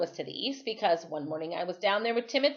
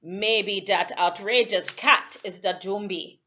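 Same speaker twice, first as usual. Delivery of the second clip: put-on suspicious old islander; 5 dB louder than usual. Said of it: "when he said".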